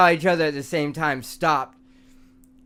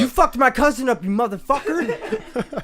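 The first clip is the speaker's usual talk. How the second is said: angry rat voice; 9 semitones higher, 4 dB louder than usual. Pretend. Voicing the rat attacking.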